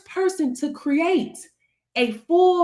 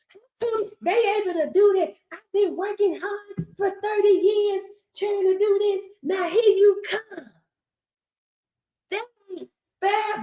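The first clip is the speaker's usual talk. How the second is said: higher, put-on aggrieved whine; hammed-up sore-loser protest; mock whining complaint; 5 semitones higher than usual. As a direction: imitate a jealous rival griping. Voices jealous haters' complaint.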